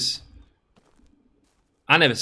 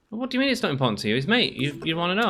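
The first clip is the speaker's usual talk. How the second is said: put-on higher, fast voice of a girl who can't believe it; mock incredulous girl; 8 semitones higher, faster than usual. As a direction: rattle it off high and fast, mocking her disbelief.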